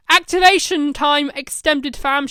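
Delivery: loud rallying call. Acted. The Doctor calling out to all her companions, loud. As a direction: call the fam to action. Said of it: "she called out".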